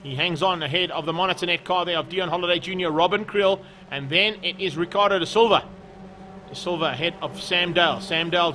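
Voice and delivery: animated motorsport play-by-play; keen trackside race call; live race commentary. Real, not acted.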